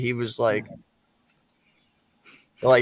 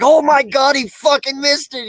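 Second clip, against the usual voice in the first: much higher, louder retold shock; retold disbelief; 13 semitones higher, 7 dB louder than usual. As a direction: relive the moment he missed it. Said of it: "I was like".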